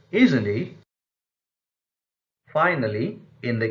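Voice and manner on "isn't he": "isn't he" lifted into a question; rising tag question. Shown as a demonstration. Teacher repeats the tag question example, rising tone. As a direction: push "isn't he" upward at the end. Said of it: "tag questions where the speaker".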